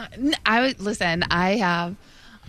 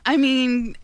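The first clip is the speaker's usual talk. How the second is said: higher, cracking voice; 3 semitones higher than usual. Real, not acted. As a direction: voice rising and cracking as you answer. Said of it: "I heard the voice crack".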